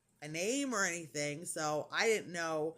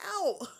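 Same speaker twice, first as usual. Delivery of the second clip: imitated pain yelp; 11 semitones higher, 4 dB louder than usual. Re-enacts thumb pressed in wound.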